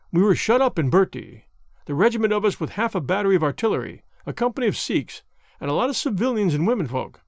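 an aging soldier telling his grievance with rough pride; old Indian Army corporal recounting his past, lightly voiced; bitter old soldier. Henry Wood tells his story.

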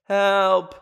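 rising, whiny calls for help; hammed-up helpless pleading; mock cry for help. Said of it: "I'm like".

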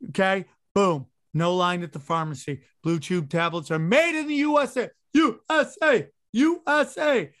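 hammed-up sponsor ad read. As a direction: sell it like a cheesy radio spot. Reads a sponsor ad.

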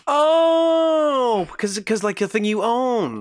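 high, sudden gasp of getting the pun; an excited high-pitched oh as it clicks; gasping realization. Real, not acted. Realizing the double meaning of the show title, high and gasping.

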